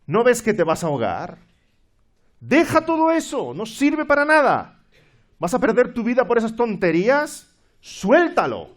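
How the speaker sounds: loud, high urgent shouting; sailor shouting. Acted. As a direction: yell across the water to a drowning man. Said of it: "un marinero que le grita". (marinero gritando fuerte al náufrago)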